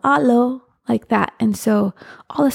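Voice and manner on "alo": a raised, higher call of Alo at a door. Shown as a demonstration. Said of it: "you yell".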